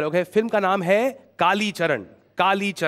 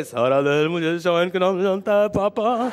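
Sunny Deol. Retold or imitated. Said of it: "जहां सनी देओल कह रहे हैं".

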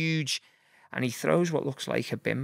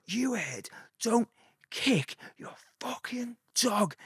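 slow, much higher put-on Scouse accent; scary Scouse; 10 semitones higher, slower than usual. Warning a dog-kicking skinhead, in slow scary Scouse. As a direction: lean into a threatening Scouse accent, drawing it out. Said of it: "he tried to engage full scary Scouse".

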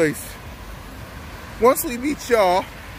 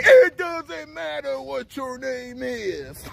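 The Rock impression; 4 semitones higher, slower than usual. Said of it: "that The Rock picks on".

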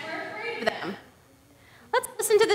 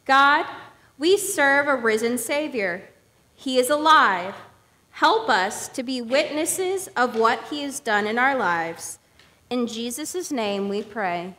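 prayer; 3 semitones lower than usual. Shown as a demonstration. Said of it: "Show me how we pray".

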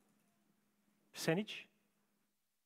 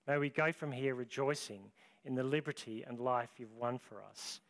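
soft, reverent closing prayer; 2 semitones lower, 3 dB quieter than usual. Real, not acted. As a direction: pray gently for the congregation.

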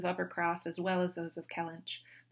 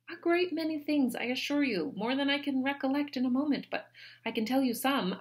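put-on higher, earnest young woman; high, earnest sisterly voice; Anne explaining; 7 semitones higher, 3 dB louder than usual. A narrator's reading. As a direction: patiently list the chores. Anne listing duties.

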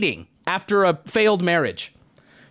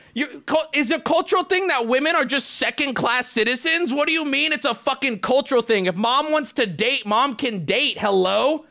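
higher exasperated scolding; heated rant; 6 semitones higher than usual. Retold or imitated. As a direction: keep lecturing them, still worked up. Continuing rant at kids.

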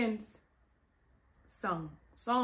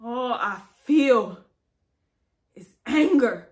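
tragic heroine sorrow; 6 dB louder than usual. Acted. Grief turning to anger.

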